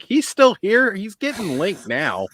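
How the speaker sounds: high, surprised, then slow and pointed; mock surprise. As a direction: act shocked someone is still here. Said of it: "And I was like".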